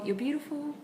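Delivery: high, gentle "You're beautiful"; high praise to dog. Shown as a demonstration. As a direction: lift it up high and sweet for the dog. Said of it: "I taught her as well".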